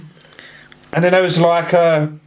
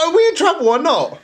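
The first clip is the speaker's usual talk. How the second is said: laughing retold worry; 12 semitones higher than usual. Retold worried question, laughing.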